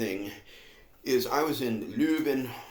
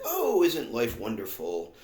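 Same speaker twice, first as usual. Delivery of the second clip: fake happiness. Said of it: "fake happiness".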